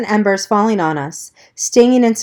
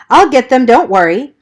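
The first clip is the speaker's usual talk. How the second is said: firm reassurance; 5 semitones higher, 6 dB louder than usual. Acted. Man reassures panicking woman.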